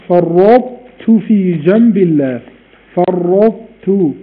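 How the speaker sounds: slow فرطت, ط kept heavy before ت; فرطت with ط's trace; partial merge. Shown as a demonstration. Teacher demonstrating exception, slow.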